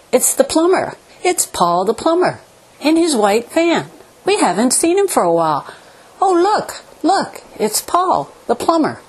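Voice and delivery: Fricka's polite little announcement; demure dog voice. Retold or imitated. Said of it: "her usual, somewhat demure".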